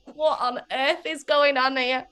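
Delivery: half-crying through laughter, slowed down; laughing in disbelief at the stage show; baffled laughing quote. Retold or imitated. Retelling a band's show to the host, laughing in disbelief. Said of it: "we were just like".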